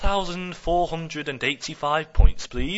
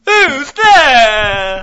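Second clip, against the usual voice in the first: high squeaky voice; 9 semitones higher, 10 dB louder than usual. Acted. High answering voice.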